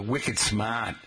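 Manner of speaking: slow wicked smart, Boston-style; Boston accent. Retold or imitated. Professors quoting a student's speech, Boston accent. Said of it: "you would say things".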